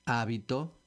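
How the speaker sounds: HÁbito, first syllable punched; Hábito stressed on the A. Shown as a demonstration. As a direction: lean on the HÁ of Hábito. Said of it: "con acento en la A".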